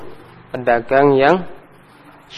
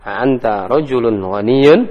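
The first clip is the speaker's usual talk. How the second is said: slow, pitch rising on ghaniyun; question intonation; 2 semitones lower, slower than usual. Shown as a demonstration. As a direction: ask it, lifting at the end. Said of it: "dengan tanda intonasinya yang bagus".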